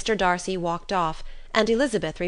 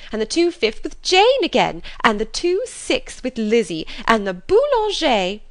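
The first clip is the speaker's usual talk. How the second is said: gushing mother; 3 semitones higher, 4 dB louder than usual. Acted. Mother rushing in to tell her husband, loud gushing. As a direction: burst in overflowing with news. Mrs Bennet lists dances.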